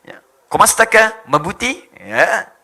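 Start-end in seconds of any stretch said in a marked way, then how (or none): 0.5-1.8 loud, lifted Filipino accent; Filipino speaker impression. Shown as a demonstration. Greeting in Tagalog to amuse the crowd, mimicked Filipino accent. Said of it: "kayak orang Filipin".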